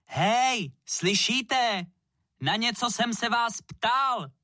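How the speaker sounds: high, slow shouted demand; shouting. A narrator's reading. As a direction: yell to be heard by everyone. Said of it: "křičel Max".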